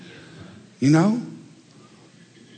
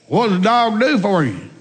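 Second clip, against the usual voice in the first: mocking redneck; 8 semitones higher, 3 dB louder than usual. Redneck demanding.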